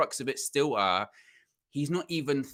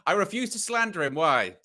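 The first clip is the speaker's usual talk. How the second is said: 1 mock devoted fan; 5 semitones higher, 3 dB louder than usual. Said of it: "Just go".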